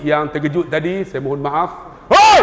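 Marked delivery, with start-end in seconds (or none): 2.1-2.4 loud, high "Hoi!" to startle; sharp startling yell; sudden shout. Acted. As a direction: jolt the aunties awake. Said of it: "terkejut lagi".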